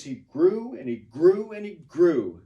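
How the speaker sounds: rhythmic line, each "grew" stressed. Shown as a demonstration. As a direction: punch every "grew" in the line. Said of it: "You just stress grew".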